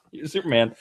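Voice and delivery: botched Australian that comes out Cockney; bad Australian accent. Host reenacting a comic scene as Lex Luthor, bad Australian accent. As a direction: attempt Australian and land on fake Cockney. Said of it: "you sound like Dick Van Dyke trying to be Cockney".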